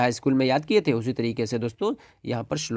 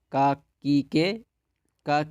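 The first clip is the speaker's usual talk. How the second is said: slow dictation; much slower than usual. Shown as a demonstration. Teacher dictates the case endings.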